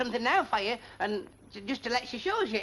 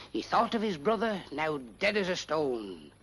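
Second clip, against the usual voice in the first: slow, solemn reciting of a melodramatic poem; dramatic recitation; 5 semitones lower, slower than usual. Acted. George reciting his poem to the pals, solemnly dramatic. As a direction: declaim it like a parlour performer.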